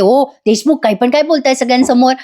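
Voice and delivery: mildly annoyed telling-off; a touch of irritation; mock scolding. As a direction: imitate an irked wife shushing her husband. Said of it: "Kavya चिडते आणि म्हणते".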